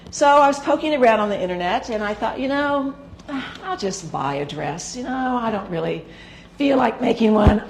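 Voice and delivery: gravelly, worn-out voice; hoarse voice. Real, not acted. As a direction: talk through a rough throat. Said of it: "I'm so sorry about my voice today".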